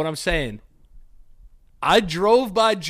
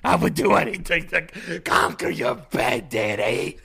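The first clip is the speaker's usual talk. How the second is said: wrestling promo. Pretend. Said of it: "W W E promo on a bed".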